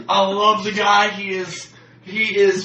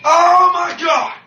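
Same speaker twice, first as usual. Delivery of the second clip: exasperated exclamation; 8 semitones higher, 6 dB louder, slower than usual. Real, not acted. Outburst recalling eating coworker.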